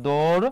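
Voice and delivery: দৌড় as a separate syllable, "dor"; syllable-by-syllable pronunciation. Shown as a demonstration. Teacher gives the middle syllable, দৌড় said separately as "dor". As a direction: sound out দৌড় alone, rising at the end. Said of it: "উচ্চারণটা কি হবে".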